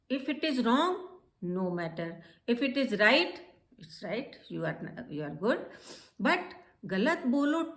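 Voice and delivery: lively encouraging classroom voice; encouraging teacher. Retold or imitated. Teacher retells urging her students to speak, encouraging. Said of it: "encouraged my students and asked them".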